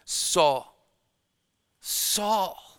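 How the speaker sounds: a caring plea, not a command; compassionate urging. Acted. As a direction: urge him gently and kindly. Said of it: "with a compassionate urging".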